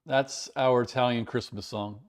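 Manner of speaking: throat catching, about to cough; choking. Real, not acted. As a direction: talk through a tickle in the throat. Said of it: "Steve, why am I choking?".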